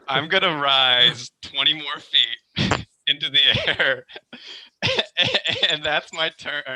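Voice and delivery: laughing. Real, not acted. Laughing through his own move.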